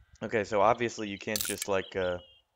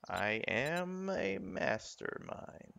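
slow, higher mock-grand boast; 8 semitones higher, 4 dB quieter, much slower than usual. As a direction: declare it slowly like a villain. Self-mocking boast.

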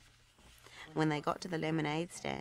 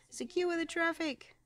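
commanding; 13 semitones higher than usual. A narrator's reading. Ryder giving an order.

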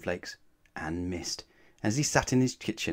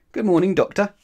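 much higher, louder good morning; cheery greeting; 10 semitones higher, 8 dB louder than usual. Acted. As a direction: sing out the greeting brightly. Mister Wrong greets cheerily.

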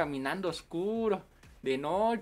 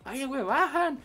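louder, higher yelled stop call; higher, louder yelled bajan; shout; 8 semitones higher, 6 dB louder than usual. Retold or imitated. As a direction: shout it over the bus noise. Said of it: "le gritas".

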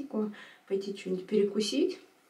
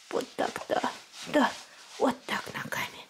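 whispering; 4 semitones higher, 4 dB quieter than usual. Real, not acted. Whispering to baby.

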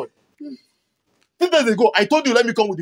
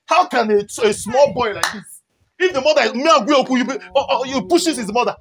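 higher, raised-voice reproach; indignant scolding; 4 semitones higher than usual. Real, not acted. Scolding a boy for pushing his mother, indignant. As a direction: scold in outraged disbelief.

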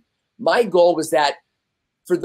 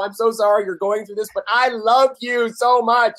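quoting wife tenderly; 6 semitones higher than usual. Retold or imitated. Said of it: "She's like".

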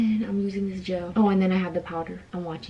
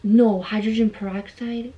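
louder, slow, puzzled; loud question; 2 semitones higher, 7 dB louder than usual. Real, not acted. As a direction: call it out, unsure.

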